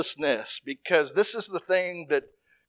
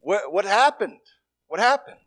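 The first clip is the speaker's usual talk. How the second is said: higher, louder puzzled demand; mock exasperated question; 4 semitones higher, 4 dB louder than usual. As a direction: ask it like a baffled teacher. Imagined Jesus questioning disciples.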